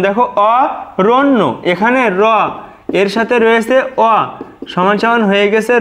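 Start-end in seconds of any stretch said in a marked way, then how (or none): 0.6-1.4 অরণ্য said slowly with a doubled ন্ন; correct pronunciation, slow. Shown as a demonstration. Teacher repeating the word slowly for students. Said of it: "এটাই আমাদের শুদ্ধ উচ্চারণ".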